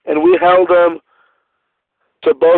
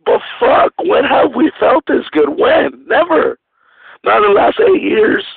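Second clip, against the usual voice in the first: excited. Real, not acted. Fan pumped about winning streak.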